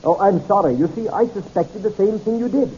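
a polite, mild apology with a smile; apologetic. Acted. Barry handing over the water glass, apologetic. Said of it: "an apologetic smile on his lips".

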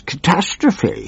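high anguished howl of a wretched minister; hammed-up howling minister; howled quote. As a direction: wail it like a snivelling coward. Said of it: "he howled".

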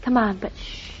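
hushed whisper so as not to wake her; shushing, tiptoe-quiet whisper. Acted. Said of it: "we don't have to whisper anymore".

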